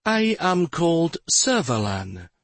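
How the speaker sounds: lightly voiced soft woman; a hint of a soft, feminine stranger. A narrator's reading. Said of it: "a soft feminine voice replied".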